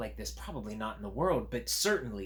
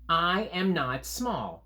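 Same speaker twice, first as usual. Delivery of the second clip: higher, slow creature protest; stubborn creature; 8 semitones higher, 6 dB louder, slower than usual. Acted. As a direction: push back as the fuzzy creature. Creature argues back.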